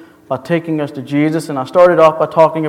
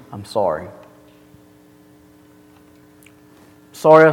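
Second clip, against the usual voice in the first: humble apology. Shown as a demonstration. Pastor acting the offender who accepts the correction. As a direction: say sorry humbly, without defending. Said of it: "simply respond by saying".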